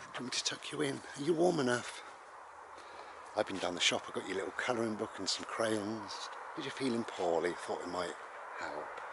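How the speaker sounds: caring mum. Acted. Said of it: "and your mum said".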